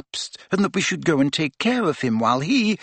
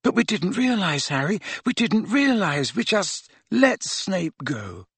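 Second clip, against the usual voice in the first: high, soft, distressed wail; ashamed, muffled confession; 6 semitones higher, 3 dB quieter than usual. A narrator's reading. Hermione confesses they let Snape go, high and ashamed. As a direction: draw out the regret in a high, small voice. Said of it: "so that her voice was muffled".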